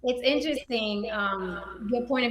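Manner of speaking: echoey room sound on the mic; big hall echo. Real, not acted. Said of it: "Sorry, guys, I'm echoing".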